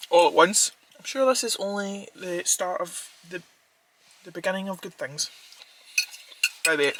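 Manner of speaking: talking with mouth full; words round a bite of food; chewing steak. Real, not acted. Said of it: "I keep talking with my mouth full".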